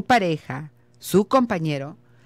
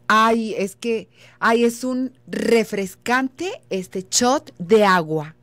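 slow, gushing, pitched higher; with emotion; 4 semitones higher, slower than usual. Shown as a demonstration. Teacher demoing an emotional description, slow and gushing higher. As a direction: gush over a simple glass of water. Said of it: "Eso ya es con emoción".

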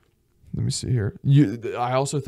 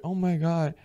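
put-on charmed girl; 6 semitones higher than usual. Acted girl charmed by Frenchman.

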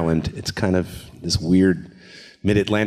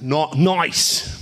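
put-on raised, shouted Pittsburgh accent; 5 semitones higher than usual. Performer showing off for a praising host, Pittsburgh accent. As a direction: call it out in a broad Pittsburgh accent. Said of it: "I love, I love the accent".

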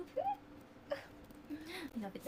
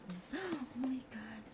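slow whisper; 6 dB quieter, much slower than usual. Real, not acted. Whispered awe at bag interior.

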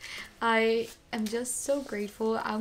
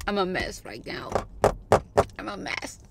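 whisper; 3 semitones lower, 5 dB louder than usual. Real, not acted.

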